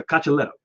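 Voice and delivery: Caccioletto said as kah-chuh-LET-oh; giving the pronunciation. Shown as a demonstration. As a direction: show Caccioletto with a CH sound and stress on LET. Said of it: "that was not bad".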